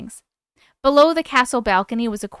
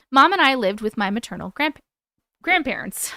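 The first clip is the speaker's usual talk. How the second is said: hiccups breaking the words; hiccuping. Real, not acted. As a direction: read through the hiccups. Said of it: "I'm, like, hiccuping".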